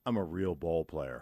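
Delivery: put-on quiet earnest kid boast; proud boy. Grandson telling the dog owner, quiet and earnest. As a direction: say it simply like a small boy. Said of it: "looks up at her and goes".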